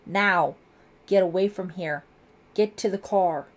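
loud, impatient commands; impatient scream. A narrator's reading. Lieutenant rushes hesitant girls off, impatient shout. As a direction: shout each order hard. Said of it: "screamed impatiently".

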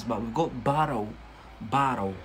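"burrow" with /a/, not the /ɔ/ of "borrow"; model word burrow. Shown as a demonstration. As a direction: say "burrow" twice, open a, for learners to copy. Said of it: "To borrow, this is something else".

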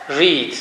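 "read" pronounced "reed", long ee; same as first form. Shown as a demonstration. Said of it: "Bir ile üç aynı". ("read" uzun i ile, "riid" gibi okunur)

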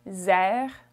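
"Réservation" split into separate French syllables, S as Z. Shown as a demonstration. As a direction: model "Réservation" in French, pausing after each syllable. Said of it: "The S makes a Z sound".

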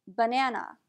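"banana" with first and last A as uh; schwa in banana. Shown as a demonstration. Teacher giving an example word, schwa at both ends. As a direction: say "banana" as buh-NAN-uh. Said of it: "first A and the last A are pronounced as a schwa".

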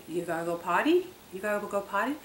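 lilting questions with a rising end; coaxing dog talk. Retold or imitated. Asking the dogs whether they need to go, coaxing. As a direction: coax the pup sweetly toward the door. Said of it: "for my dogs, it is".

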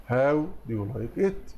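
slow question ending in a rise; slow repeat. Shown as a demonstration. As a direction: repeat it slowly, lifting at the end. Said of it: "teacher repeats correct answer". (تكرار بطيء بنغمة صاعدة)

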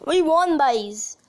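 put-on Irish "boys", said like "byes"; Irish accent. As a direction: cheer it with a touch of Irish accent. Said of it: "Just like the Irish say it".

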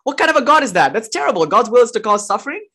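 a teacher acting out the devotee's angry protest; angry retort. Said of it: "he gets angry".

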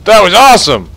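thrilled exclamation. Real, not acted. Gamer watching a spectacular crash, thrilled exclamation. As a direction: burst out amazed.

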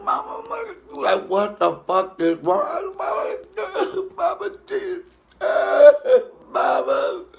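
very high wailing cries for mama; hysterical crying. Retold or imitated. Comic calling his mama in hysterical high wailing sobs. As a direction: sob to your mother like a child. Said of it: "I'm like".

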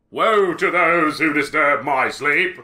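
slow, ominous recital; mock-spooky narrator voice; dramatic reading. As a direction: intone it like a cursed tomb. Reads game text dramatically.

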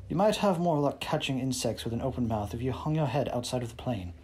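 put-on serious clipped British accent; lightly done British accent, serious and crisp. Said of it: "clipped British accent".

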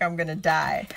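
laughing through a fake melodramatic line; mock dying, laughing. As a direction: ham it up while giggling. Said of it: "He's like".

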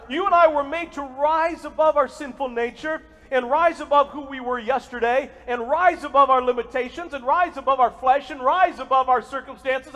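building sermon cadence, rising each phrase; fervent preacher lifting the crowd; preaching. Acted. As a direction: preach it, driving the repeats. Preaching at full force.

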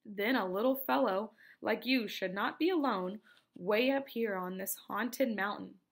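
lightly voiced old woman warning; a hint of a gossipy old lady. Old lady warns the boy.

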